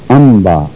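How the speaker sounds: "ام با" with the m held as a nasal hum; nasalised meem. Shown as a demonstration. Teacher demonstrating ghunna, "ام با" with held nasal m. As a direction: hum through the m before ba in "ام با". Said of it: "میم غنے کے ساتھ ادا کی گئی ہے".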